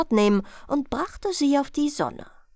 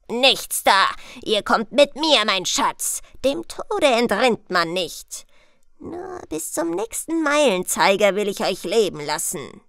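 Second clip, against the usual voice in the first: lightly voiced, firm Death; commanding Death. Death refusing to let the princess go, commanding. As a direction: overrule the princess firmly, then settle into talk. Plays Death taking charge.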